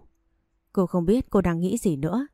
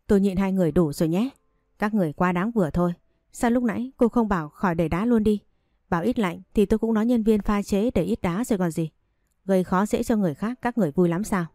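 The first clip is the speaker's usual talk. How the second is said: angry outburst; faster than usual. Acted. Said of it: "và nói lớn".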